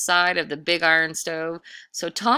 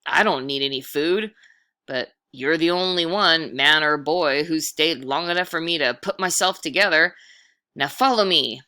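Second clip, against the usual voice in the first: louder, booming ghost voice; commanding ghost; 6 dB louder than usual. Acted. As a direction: lord it over the boy as a ghost. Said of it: "The ghostly figure said".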